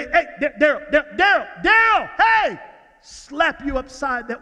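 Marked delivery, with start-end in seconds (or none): 0.0-2.6 calling out. Retold or imitated. Wife calling him.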